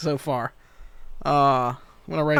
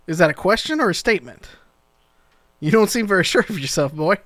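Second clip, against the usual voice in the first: put-on sceptical older man, teasing; mocking NPC; 3 semitones higher than usual. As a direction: needle the nervous kid, lightly voiced. GM voices NPC challenging player.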